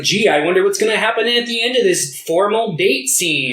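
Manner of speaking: mock wondering. Sarcastic mock wondering about plot.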